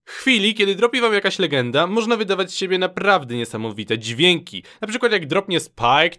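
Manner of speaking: ordinary delivery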